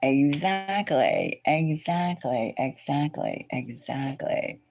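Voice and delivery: slow, drawn out, fading. Real, not acted. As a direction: stretch each, letting it fade.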